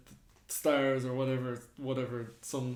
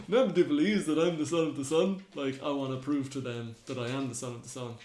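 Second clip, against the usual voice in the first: put-on Scottish accent. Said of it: "I don't know why he's Scottish".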